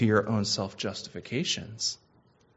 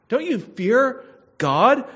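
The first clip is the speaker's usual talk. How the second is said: much higher and louder, slow and pleading; thief's rebuke; 9 semitones higher, 6 dB louder, slower than usual. Acted. Dying thief rebukes the mocking thief, loud. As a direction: cry it out at him like a dying man.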